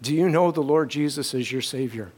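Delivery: low, hushed, voiced near-whisper; dying father asking softly and earnestly; dad's whisper. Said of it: "because he's just whispering".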